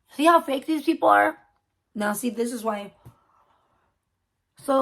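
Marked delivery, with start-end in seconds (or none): 0.1-1.4 indignant exclamation. Real, not acted. Outraged rant at fake people.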